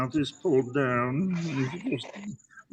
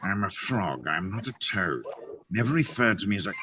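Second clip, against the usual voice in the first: James Mason-ish; 3 semitones lower, 4 dB quieter than usual. Acted. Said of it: "a little bit of James Mason".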